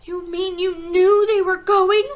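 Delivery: high, loud, drawn-out disbelief; slow, high-pitched incredulous outburst; shocked cry. A narrator's reading. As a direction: cry out as a betrayed child. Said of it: "Matilda cried".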